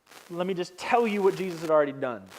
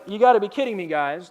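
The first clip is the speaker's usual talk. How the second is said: exasperated; 4 dB louder than usual. Retold or imitated. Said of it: "face palms".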